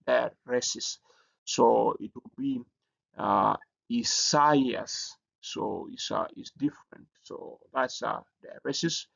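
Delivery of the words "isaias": Isaias said slowly, its vowels kept apart; vowels pronounced separately. Shown as a demonstration. Teacher showing students a diaresis, Isaias with separated vowels. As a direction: sound each vowel of Isaias on its own. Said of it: "you don't pronounce this as a".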